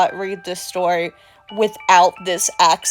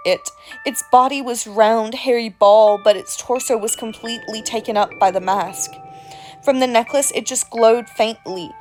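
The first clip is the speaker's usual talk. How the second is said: creepy storyteller voice. Acted. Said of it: "without this accent".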